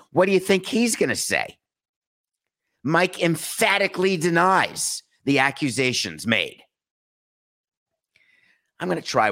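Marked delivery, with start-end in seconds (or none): 2.8-6.6 higher, slower, emphatic denial; drawn-out mock-solemn denial; mock official statement. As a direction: announce it like a pompous press statement. Voices Clevinger's expected statement.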